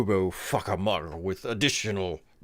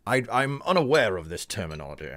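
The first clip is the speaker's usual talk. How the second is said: put-on British accent; faster than usual. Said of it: "various British accents".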